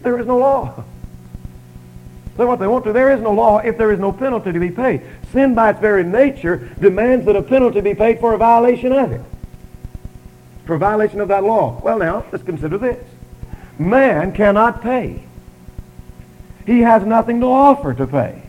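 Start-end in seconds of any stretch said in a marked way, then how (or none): 0.0-9.2 higher, insistent preaching voice; emphatic preaching. Real, not acted. Preacher to congregation on law and penalty, emphatic preaching. Preacher drives the point home. 13.8-18.4 slow, weighty preaching, rising in force; emphatic declaration. Real, not acted. Preacher declaring man has nothing to offer, emphatic declaration.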